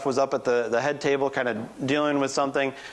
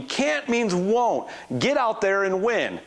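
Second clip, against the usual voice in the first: mock yell, much higher, slow on the motto; coach yelling; 7 semitones higher, slower than usual. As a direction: bark it like a furious coach. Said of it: "he just yells at me".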